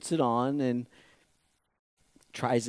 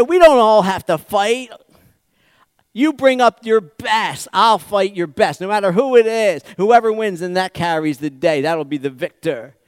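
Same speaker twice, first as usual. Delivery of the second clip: booming preacher voice as Goliath; loud giant challenge; 5 semitones higher, 9 dB louder than usual. Acted. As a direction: call out the challenge across the valley.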